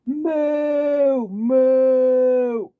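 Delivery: loud high mock moo; cow moo. Waluigi mooing at Wario, loud high cartoon moo.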